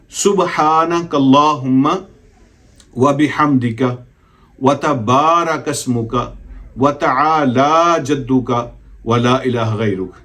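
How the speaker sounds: slow, careful prayer recitation. Shown as a demonstration. Teacher reciting the full prayer as a model, slow. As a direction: recite it slowly, word by word. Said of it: "तो एक मरतबा फिर".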